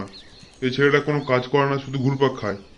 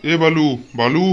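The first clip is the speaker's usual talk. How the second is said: raised-voice hail; drawn-out, louder call; 4 dB louder, slower than usual. Acted. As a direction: call a friend's name to get his attention. Father hails café-owner friend.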